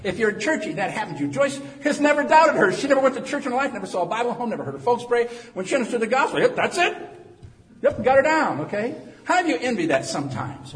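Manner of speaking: loud, high-pitched pulpit delivery; full-force preaching. Real, not acted. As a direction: preach it out to the whole church.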